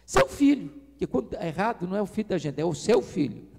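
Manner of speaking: a touch of a nagging wife voice; scolding wife. Retold or imitated. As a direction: needle the husband as his wife. Wife scolds husband in story.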